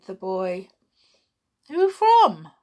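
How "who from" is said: higher, louder ask; startled ask; surprised sharp question. Acted. Porter asks sharply.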